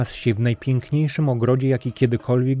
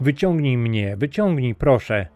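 desperate plea; 4 semitones higher than usual. Acted. Boy trapped in cave begs.

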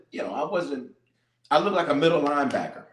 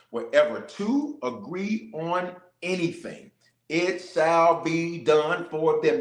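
slow scripture reading; slower than usual. Acted. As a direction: read the verse slow and weighty. Quoting the Bible.

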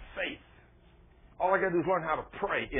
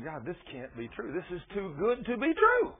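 incredulous; 3 semitones higher than usual. Retold or imitated. Preacher reliving his thought to God, incredulous. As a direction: start as a hushed thought, rise sharply into amazement. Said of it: "I'm thinking".

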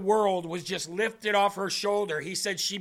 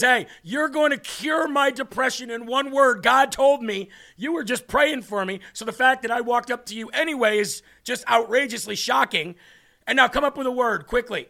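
insistent demand; 4 semitones higher, 4 dB louder than usual. Retold or imitated. Acting woman demanding a word.

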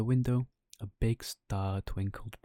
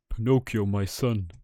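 overjoyed; 6 dB louder than usual. Acted. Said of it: "he said in great happiness".

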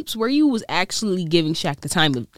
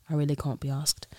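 softer British "I really can't be asked", broad "can't"; British accent, softer; 3 semitones lower, 5 dB quieter than usual. Shown as a demonstration. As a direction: mutter it like a tired Londoner. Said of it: "rate my British accent".

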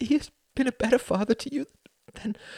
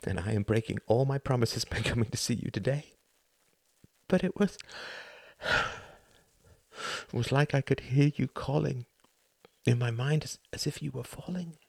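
higher, pained voice close to tears; pleading confession; 7 semitones higher than usual. Acted. A son telling his dying mother he knows. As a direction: confess it, voice straining upward.

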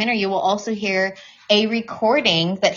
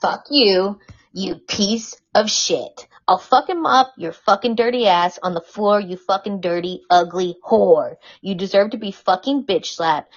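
mock the abusive message as a raging sleazebag, hammed-up; a hint of an angry bully, cursing with punches of volume; Joe Francis impression. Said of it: "here's my best impression of Joe Francis".

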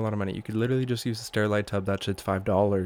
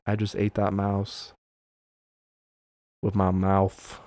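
slow, lazy snake musing; lightly voiced blissful snake; mock peaceful contentment; slower than usual. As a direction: drag it out like a contented, full-bellied pet. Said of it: "curled up very peacefully".

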